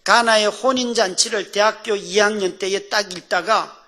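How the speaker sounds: ordinary talk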